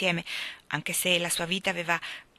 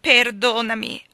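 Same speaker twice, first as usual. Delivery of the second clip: desolate plea; 3 semitones higher, 7 dB louder, slower than usual. A narrator's reading. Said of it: "lo implorò desolata Anna".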